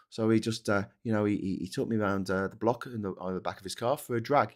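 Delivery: soft, halting recollection, lightly acted; sketch interviewee. Gangster's victim recalling him to an interviewer, lightly mock-earnest.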